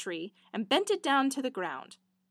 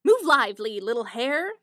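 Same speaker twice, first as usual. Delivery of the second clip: louder called command to the hare; called-out order; 7 dB louder than usual. Acted. Minstrel ordering the hare to run, called out. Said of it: "the minstrel cried out".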